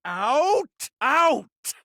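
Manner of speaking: sharp high shouted command; indignant critic barking out. Acted. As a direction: throw them out with a shout. Food critic ejects someone.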